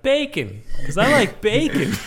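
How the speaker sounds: high, mock little-kid voice; small child. Host imitates a small child naming a favorite word, high kid voice. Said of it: "when they do a small child".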